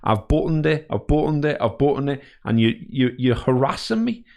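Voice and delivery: retelling his rant at a pushy sales caller; heated rant. Retold or imitated. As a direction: really let the salesman have it. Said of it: "I proper went on this full spiel".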